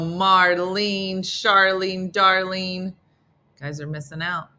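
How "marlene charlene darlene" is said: belting the names out like a roll call. Acted. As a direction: call each name out across the room. Calling out the names.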